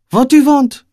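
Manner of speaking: put-on high, loud, stern Eastern European accent; stern Eastern European woman. Wary homeless woman confronting a stranger, Eastern European accent. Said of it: "thick Eastern European accent in her voice".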